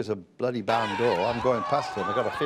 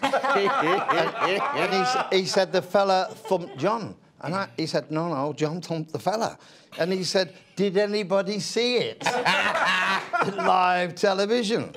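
laughing through story; 6 semitones higher than usual. Real, not acted. Laughing while retelling Blair.

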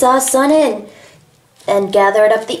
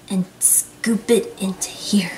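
whispering; 7 dB quieter than usual. Real, not acted. Whispering while scooping.

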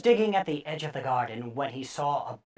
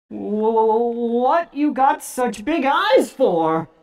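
put-on frightened boy; 5 semitones higher, 5 dB louder, slower than usual. A narrator's reading. Frightened boy questions creature.

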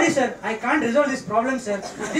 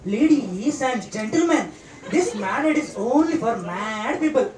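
mock announcement; 3 semitones lower, slower than usual. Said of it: "let's give the statutory warning".

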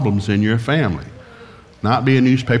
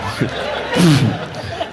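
imitated whoosh of flames. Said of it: "is really flammable".

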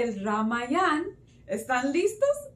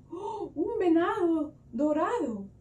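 gasped, higher-pitched amazement; acted wonder; 5 semitones higher than usual. Storyteller shows children the golden deer, amazed. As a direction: marvel with a gasp for young listeners.

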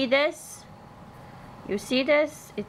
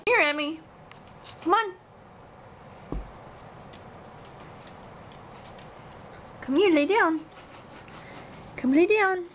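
dog commands; 6 semitones higher, slower than usual. Real, not acted. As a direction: call the puppy over, sing-song and high. Calling dog to lie down.

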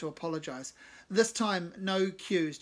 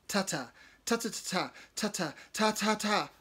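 hesitant attempt; 4 semitones higher, 3 dB louder than usual. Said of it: "I try".

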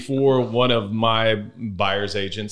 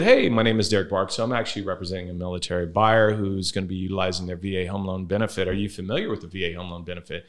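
phone voice; 3 semitones lower than usual. Retold or imitated. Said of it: "the phone voice that this man has".

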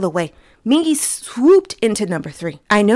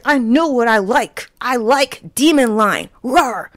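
mock confident fan; 3 semitones higher than usual. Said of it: "I was like".

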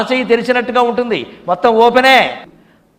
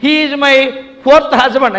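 higher-pitched mock interview answer; imitated Western wife; 6 semitones higher, 4 dB louder, much slower than usual. Wife introducing husband to interviewer, lightly mocked higher voice. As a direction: announce it brazenly, pitched up.

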